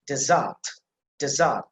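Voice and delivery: "desert" with a "der" sound opening it; stress on first syllable. Shown as a demonstration. Teacher demonstrating the noun, first syllable stressed. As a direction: say "desert" twice, spaced, weighting the first syllable. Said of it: "the emphasis on the first syllable".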